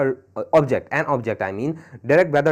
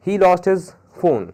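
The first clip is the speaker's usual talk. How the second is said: very slow, each word laid out; slow example read; 3 semitones higher, much slower than usual. Shown as a demonstration. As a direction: read the example slowly for the class. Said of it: "more examples". (उदाहरण बहुत धीरे पढ़ना)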